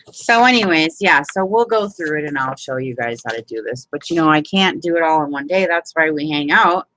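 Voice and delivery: ordinary talk, nothing marked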